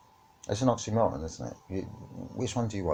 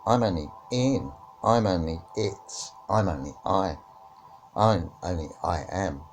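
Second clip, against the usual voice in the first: innocent little words voice. Pretend.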